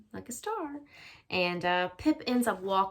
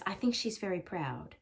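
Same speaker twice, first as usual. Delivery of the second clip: put-on boy's voice; 4 dB quieter than usual. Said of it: "He says".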